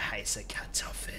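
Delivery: HEISSE breathed out with emphasis; stress on HEISSE. Pretend. Player vows loyalty to his crowbar, leaning on HEISSE. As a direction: lean on the word HEISSE. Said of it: "Aber Betonung auf heiß".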